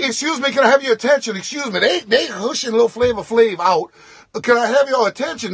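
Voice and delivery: calling for attention. Retold or imitated. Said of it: "So I'm like".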